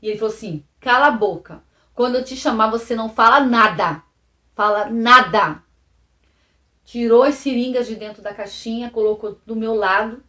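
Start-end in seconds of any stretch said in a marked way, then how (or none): 0.8-5.6 louder, hard father's command, slowing at the end; a hint of a menacing father; retold stern threat. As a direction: bark the order down at her.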